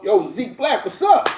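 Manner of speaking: high, eager fan hailing Zeke; mock eager greeting. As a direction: hype up the greeting like a star-struck fan. Imitating a groupie greeting.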